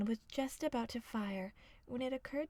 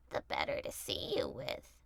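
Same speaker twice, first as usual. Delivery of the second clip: far lower, rumbling wolf; deep wolf voice. A narrator's reading. Wolf in grandmother's bed, far lower. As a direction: growl it low as the wolf.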